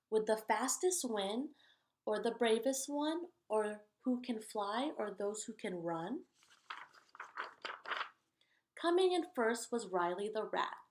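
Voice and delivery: lively, sing-song storybook reading; animated picture-book read-aloud; reading to children. A narrator's reading. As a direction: read the rhymes out to the kids, bouncing along.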